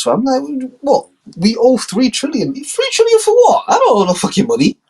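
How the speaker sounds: high, frantic squeal over the bills; panicked Trump. Acted. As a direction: shriek it in disbelief.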